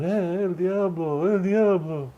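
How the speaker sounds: a hint of a scared old man; mock fear. Old man facing the rider, mild mock fright. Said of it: "He's going".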